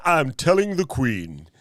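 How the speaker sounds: high-pitched hammy British tattletale; mock British accent. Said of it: "making fun already of my British accent".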